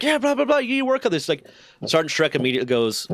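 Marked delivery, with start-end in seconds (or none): 0.0-1.3 high squeaky imitation of the chief; mock Chief voice. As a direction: brush it off in a high cartoon boss voice. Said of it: "He's like".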